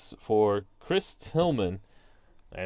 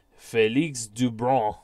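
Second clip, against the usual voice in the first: name drawn out in French accent; bad French accent; 2 semitones lower, slower than usual. Shown as a demonstration. Announcer bringing in the lefty, mock French accent. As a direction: say the pitcher's name in would-be French. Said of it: "attempt at a French accent".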